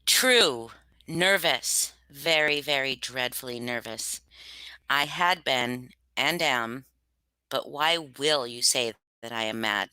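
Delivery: unhurried dark storytelling; story reading. Acted. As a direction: read it like a nervous narrator insisting he's sane. Reads Poe's Tell-Tale Heart aloud.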